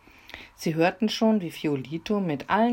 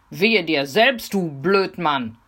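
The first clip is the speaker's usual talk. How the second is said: slow, louder taunt; defiant call; 2 semitones higher, 7 dB louder, slower than usual. Acted. Mimi shouting back at the robber, defiant. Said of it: "rief Mimi".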